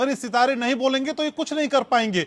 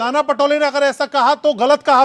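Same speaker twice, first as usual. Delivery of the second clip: louder, talking over the guest; pressing loudly; 5 dB louder than usual. Real, not acted. Anchor presses the spokesman over crosstalk, louder. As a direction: push the question over his interruptions.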